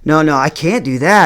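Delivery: long first no tumbling into a rapid string; mock panicked backpedaling, trailing down; flustered refusal. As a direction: protest in a nervous run of no's.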